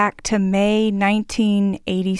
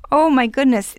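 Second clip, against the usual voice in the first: louder, higher amazed exclamation; astonished, rising to a cry; surprised; 5 semitones higher, 4 dB louder than usual. Real, not acted. Host repeats in astonishment.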